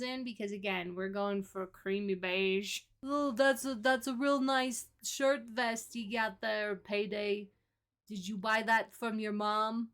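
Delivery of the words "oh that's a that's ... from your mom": lightly voiced smarmy admirer; a touch of a smooth-talking guy; character voice. Voicing a character complimenting shirt.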